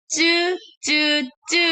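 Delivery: "ce" with a hard, doubled c; "ce" as the Korean double consonant, repeated separately; tense double consonant. Shown as a demonstration. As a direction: say each "ce" with a tense, tightened c. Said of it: "Lalu terakhir double C".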